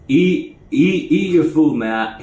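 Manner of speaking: lightly voiced inmate pushing food on him; a hint of a stubborn buddy; insistent cellmate. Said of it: "He was like".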